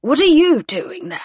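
high-pitched anxious questioning; hoarse, anxious. A narrator's reading. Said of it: "in a hoarse, anxious voice".

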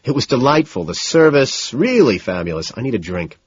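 frazzled, running on without a break; in a rush. Acted. Frazzled man telling his date about his morning, rushed. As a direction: spill it out in one nervous rush. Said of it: "unable to make eye contact, all in a rush".

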